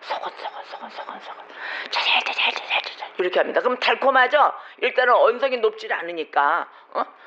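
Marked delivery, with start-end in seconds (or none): 0.0-3.1 soft, quieter whispering murmur. Speaker showing how tempters whisper to deceive souls, whispering murmur. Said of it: "이렇게 속삭이는 말을 합니다".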